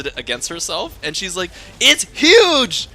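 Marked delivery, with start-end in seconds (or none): 1.8-2.9 very high, loud, appalled yell; imitated distress. Girlfriend holds pad against herself, imitated high wail. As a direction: ham up a girlfriend's exasperated wail.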